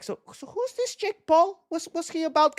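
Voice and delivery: imitating dad. Son retells dad's question about a boxer, imitating him. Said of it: "He was like".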